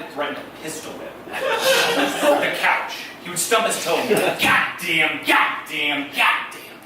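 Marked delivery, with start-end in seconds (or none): 4.4-6.8 loud, cursing dad who stubbed his toe; angry dad. Retold or imitated. Dad cursing after stubbing his toe, angry. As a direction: spit out each curse loudly, mock fury.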